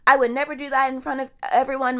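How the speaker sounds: a hammed-up fake sob story; mock crying whine. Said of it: "then starts crying and it's like".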